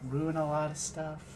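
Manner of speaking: nervously laughing it off; nervous laughter. Acted. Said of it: "releases a nervous laughter".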